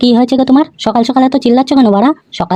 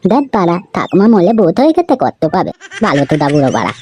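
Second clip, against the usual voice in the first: laughing; 5 semitones lower than usual. Acted. Grandson mocks grandmother's death.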